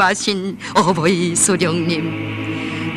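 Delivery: slow, low, reverent North Korean narration; slow solemn fall. A narrator's reading. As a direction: draw out 어버이 수령님 slowly and low. Solemn closing of narrated passage.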